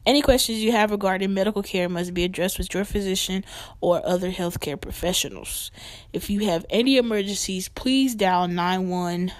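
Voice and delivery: formal scripted announcement; disclaimer read. Acted. Host warning listeners before the main discussion, formal disclaimer read. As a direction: read out the legal notice evenly. Reads the show's medical disclaimer.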